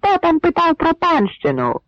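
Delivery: very high shouted question; called question. Acted. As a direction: call it down from the wall. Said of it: "запитували з валу".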